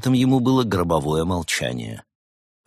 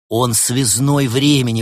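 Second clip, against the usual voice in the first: higher, louder, slow, triumphant; joyful exclamation; 6 semitones higher, 5 dB louder than usual. A narrator's reading. Лаэрт rejoicing at his guess, exclaiming. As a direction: cry out the discovery with delight. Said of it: "воскликнул Лаэрт".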